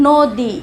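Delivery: নদী drawn out slowly as "nodi", অ like ও; ধীরে নদী, অ ও-এর মতো; slow o-like vowel. Shown as a demonstration. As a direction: slowly model নদী with an ও sound. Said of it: "ও ধ্বনির মতো উচ্চারণ".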